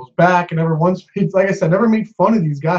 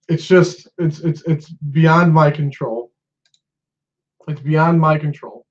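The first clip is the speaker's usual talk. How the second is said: resigned frustration; slower than usual. Real, not acted. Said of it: "before I fucking get even more upset and more mad".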